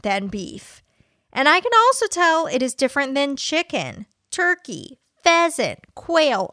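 a lightly played fire-and-brimstone preacher, earnest; deadpan sermon parody in a preacher's cadence; mock preacher. Host reading a fake sermon to listeners, mock preacher.

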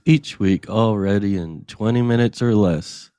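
convincing ad read; warm and persuasive. Acted. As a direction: sell it sincerely. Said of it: "you sound so convincing".

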